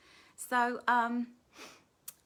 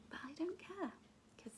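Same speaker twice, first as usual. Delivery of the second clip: unvoiced whisper, half to herself; 3 semitones higher, 13 dB quieter than usual. Real, not acted. Host whispering her defiance about the bin men. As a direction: breathe it, private and amused.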